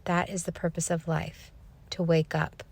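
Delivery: imitating a child's serious, even delivery; understated, level pronouncement; retold even monotone. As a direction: state it gravely without changing tone. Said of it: "without changing her tone".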